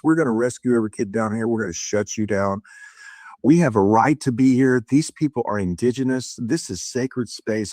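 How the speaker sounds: low, fast, firm declaration against the creature; commanding rebuke. Retold or imitated. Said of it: "I'm talking about this tone of voice".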